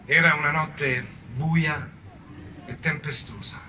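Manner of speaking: measured storyteller with weighty pauses; unhurried, solemn storytelling; mock-epic narration. A narrator's reading. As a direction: narrate like a grave epic tale. Solemn story narration in a comic retelling.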